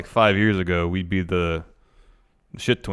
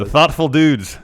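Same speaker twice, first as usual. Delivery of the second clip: announcer voice; 6 semitones higher, 7 dB louder, slower than usual. Pretend. Naming team, hammy announcer.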